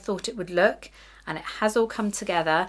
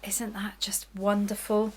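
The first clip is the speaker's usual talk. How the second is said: slow, breathy whisper of delight; hushed admiration; 4 dB quieter than usual. Real, not acted. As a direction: whisper it as if the fabric is precious.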